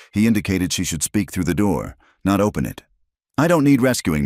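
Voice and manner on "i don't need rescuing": calling out. A narrator's reading. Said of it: "she called out".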